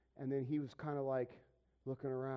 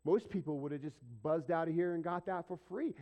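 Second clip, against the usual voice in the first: a retold "wow" of mild astonishment; shocked; 2 semitones higher than usual. Store clerk thanking an honest customer, shocked. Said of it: "He was shocked".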